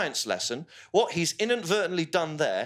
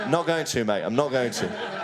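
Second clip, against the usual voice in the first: playful refusal; 2 semitones lower than usual. Real, not acted. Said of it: "Do the pedo's voice".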